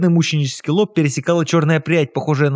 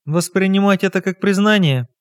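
contemptuous; 5 semitones higher than usual. Acted. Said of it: "презрительно спросила".

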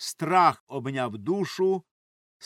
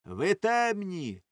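raised, higher retort; shouting; 6 semitones higher, 3 dB louder than usual. A narrator's reading. Young men shout at the hajis. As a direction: shout back at the elders. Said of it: "гукали одні".

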